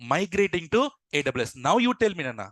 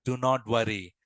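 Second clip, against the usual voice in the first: low, measured acted reassurance; calm him down, unhurried; lower-pitched voice of a rescuer; reassuring; 7 semitones lower than usual. Newcomer reassures the worried manager.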